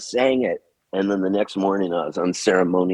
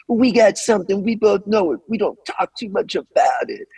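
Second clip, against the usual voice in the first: higher, half-sung rock singer imitation; mock singer voice; 11 semitones higher than usual. Record plays as lines get cut, imitating the singer. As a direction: croon it like the record coming on. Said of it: "I hear all of a sudden this voice".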